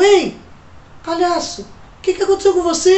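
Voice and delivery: lightly voiced girl calling out; a hint of a young girl asking; girl's voice. Menina chama o palhaço. (voz leve de menina)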